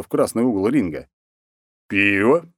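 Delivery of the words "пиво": drawn out. Acted. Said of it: "протянул он".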